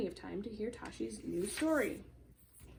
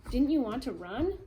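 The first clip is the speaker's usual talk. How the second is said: amazed question; 2 semitones higher, 7 dB louder, slower than usual. Acted.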